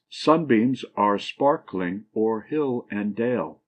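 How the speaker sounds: slow scansion, stressing SUN in "Sunbeams" and SPARK in "sparkling"; dactylic stress. Shown as a demonstration. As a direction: measure it out slowly, leaning on Sunbeams, sparkling, hill, dale. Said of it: "first syllable accented and the last two unaccented".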